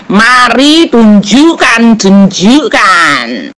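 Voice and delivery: slow, drawn-out, pushy challenge; heated demand. Real, not acted. Debater pressing his opponent to show proof, slow and heated. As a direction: lean hard on each word, daring them. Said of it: "nggak usah ngegas, ngomongnya biasa aja".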